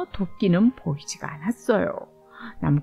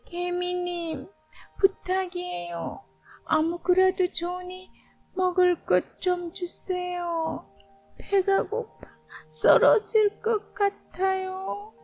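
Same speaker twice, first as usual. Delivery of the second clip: high, slow, faint pleading voice; weak hungry grasshopper; 8 semitones higher, 3 dB quieter, slower than usual. Acted. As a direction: plead weakly, starving and drained. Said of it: "배가 고프고 힘이 없는 소리로 말했어요".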